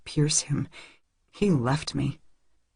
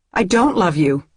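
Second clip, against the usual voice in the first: tearful denial; 4 dB louder than usual. Acted. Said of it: "I say, shaking my head".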